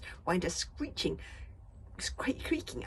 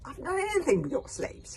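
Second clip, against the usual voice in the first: higher, louder call; 11 semitones higher, 6 dB louder than usual. Acted. Boy calls down denying it to villain. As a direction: call down defensively. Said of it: "Hiccup called down".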